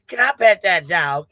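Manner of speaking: put-on little girl from the meme. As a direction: draw it out in an imitated child's voice. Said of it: "She's like".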